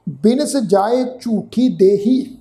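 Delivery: slow, measured Gurbani recitation; drawn-out chanted recitation; scripture recitation. Shown as a demonstration. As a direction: recite the line slowly and devoutly. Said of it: "ਤੁਕ ਦਾ ਪਾਠ ਕਰਦੇ ਹਾਂ ਜੀ".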